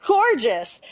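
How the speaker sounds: high giggly disbelief; amused at being fooled by a gorgeous photo, voice up high; laughing. Real, not acted. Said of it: "I'm, like, laughing".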